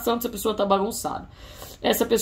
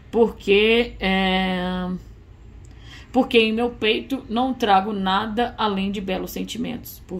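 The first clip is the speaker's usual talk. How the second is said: slow, heartfelt letter reading; reading a letter aloud; slower than usual. Acted. Reading the lover's promise to the client, slow and heartfelt. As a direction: linger on each quality, savouring it. Reads channelled love letter.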